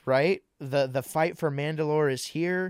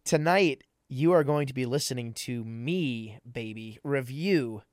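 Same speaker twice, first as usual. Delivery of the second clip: sultry voice. Pretend. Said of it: "that sultry voice you just heard".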